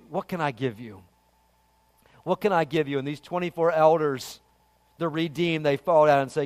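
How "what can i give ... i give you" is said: low, soft question to God; humble prayer. Acted. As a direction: ask it quietly, in humble awe. Humble worshipper speaking to God.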